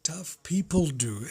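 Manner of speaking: slow breathy whisper of the motto; hushed slow echo. Shown as a demonstration. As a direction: whisper it back slowly, for emphasis. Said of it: "first said plainly".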